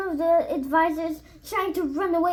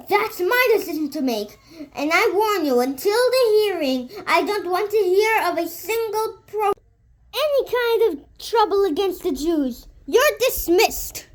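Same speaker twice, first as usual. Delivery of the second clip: louder, commanding royal rebuke; stern warning; 5 semitones higher, 5 dB louder than usual. Acted. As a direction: lay down the law to them. Sultan warning scheming ministers.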